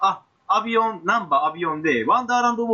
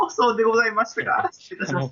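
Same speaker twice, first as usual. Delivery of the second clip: posh lady speech; 3 semitones higher than usual. Pretend. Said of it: "お上品スイッチ".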